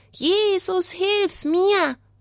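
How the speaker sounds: high, pleading crying out. Telling a Bible story to a listener, the speaker voices the blind man crying out. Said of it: "Schrei mal!".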